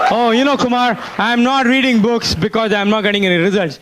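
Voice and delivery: high, mocking excuse voice; mock whining. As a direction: parody a lazy excuse.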